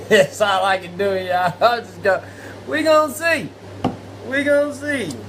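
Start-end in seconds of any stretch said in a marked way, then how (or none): 2.7-5.1 mock ominous tease. Host teasing the guest's big entrance.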